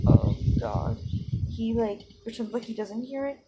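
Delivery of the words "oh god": a hushed, mortified "Oh God"; horrified whisper. Retold or imitated. Boy overhearing his friends' plan, whispering in dismay. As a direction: breathe it out under your breath, caught off guard. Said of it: "and he's like".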